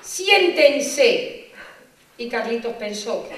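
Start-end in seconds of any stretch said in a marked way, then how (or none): 0.0-1.5 1 hushing teacher. Retold or imitated.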